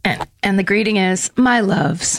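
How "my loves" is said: creaky vocal fry. Real, not acted. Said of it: "let me give that less vocal fry accidentally".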